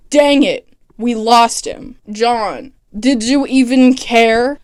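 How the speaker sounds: deadpan, drawn-out disappointment; dry, unenthused. Retold or imitated. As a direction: say it with mock total lack of enthusiasm. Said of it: "in the driest, most unenthused voice he possibly can".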